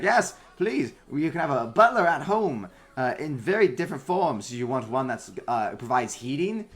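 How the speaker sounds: high eager salesman. Acted. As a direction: pitch your wares loudly and eagerly. Tinker's sales pitch.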